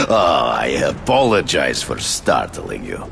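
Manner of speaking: booming theatrical greeting; hammy stage actor. Acted. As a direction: announce yourself grandly, like on stage. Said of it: "forgive my theatrics".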